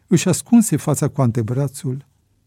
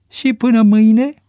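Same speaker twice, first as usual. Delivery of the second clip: confused; 10 semitones higher, 7 dB louder than usual. A narrator's reading. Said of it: "întrebă Bebe confuz".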